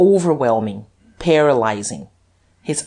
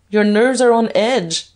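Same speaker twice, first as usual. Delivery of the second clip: higher-pitched, mock-amused jibe; amused taunt; 7 semitones higher, 4 dB louder than usual. A narrator's reading. Duke mocking jumpy Guerchard, high amused taunt. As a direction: tease him as if laughing.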